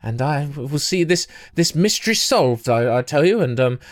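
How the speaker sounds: a hint of a prim old woman introducing herself. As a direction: play her as a proper elderly busybody, only lightly. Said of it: "a slightly prim and proper old woman".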